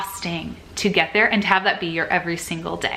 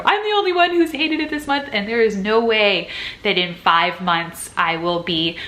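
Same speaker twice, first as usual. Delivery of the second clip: mock dramatic whine; 2 semitones higher than usual.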